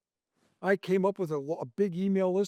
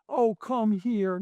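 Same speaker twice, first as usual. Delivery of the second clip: mock tender; 3 semitones higher, slower than usual.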